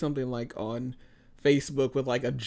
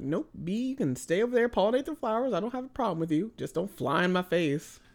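mock talk to bee; 6 semitones higher than usual. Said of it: "I'm like".

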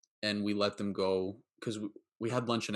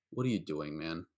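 gentle concerned question; 4 semitones lower than usual. Retold or imitated. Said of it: "I said it like that".

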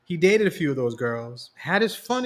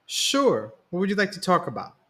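quick, high nervous reply; 7 semitones higher than usual. A narrator's reading. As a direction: rush it out, a touch nervous. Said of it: "Brandon answered nervously".

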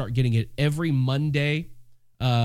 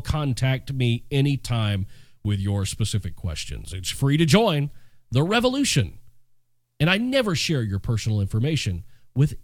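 put-on old radio voice. Shown as a demonstration. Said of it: "my old radio voice".

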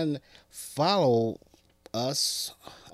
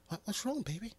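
high soft woman's voice; soft, high, concerned girlfriend; 9 semitones higher, 9 dB quieter, faster than usual. Acted. Girlfriend answering her man, high soft concern.

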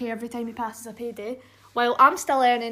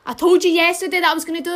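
exasperated; 5 semitones higher, 8 dB louder, much faster than usual. Real, not acted. Exasperated at brother.

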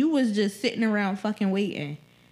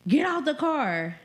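slow stern order; 5 semitones higher than usual. Retold or imitated. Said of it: "He told me something".

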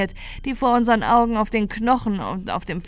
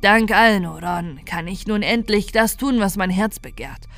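a corrupted Santa revelling in new freedom; lightly voiced triumphant villain; menacing Santa. Santa continues his monologue.

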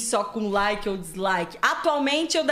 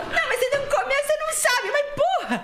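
laughing mock quote. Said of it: "As pessoas".

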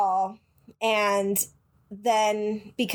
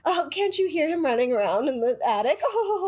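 a touch of a rich lady showing off her doll; rich socialite voice. Pretend. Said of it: "that's how you talk when you're rich".

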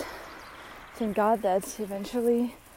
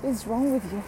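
mock outrage; 3 semitones higher than usual. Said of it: "I was like".

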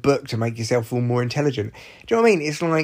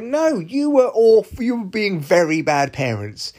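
indignant retort; 8 semitones higher, 3 dB louder than usual. Retold or imitated. Imagined retort to parents.

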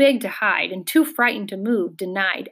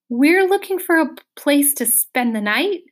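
timid; 6 semitones higher, 4 dB louder than usual. A narrator's reading. Timid Milo pleads with hostile bird.

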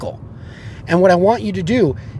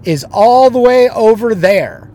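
loud punchline, pitched up; 7 semitones higher, 8 dB louder than usual. Retold or imitated. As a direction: land the punchline big. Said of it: "pointed at me while pushing his ass out".

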